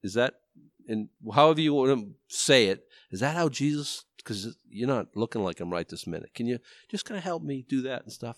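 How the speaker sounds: friendly nudge. Acted. Wife gently correcting her husband, lightly acted friendly nudge. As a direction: nudge gently, feeling for the words. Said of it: "a little friendly nudge from someone who loves you".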